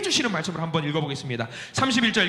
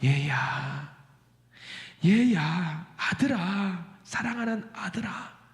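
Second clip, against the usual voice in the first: soft, gentle fatherly call; tender father; 3 dB quieter, much slower than usual. Acted. Father gently calling his angry son, tender and soft. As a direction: coax him softly, full of love. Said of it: "세상 인자한 모습으로, 사랑이 넘치는 모습으로".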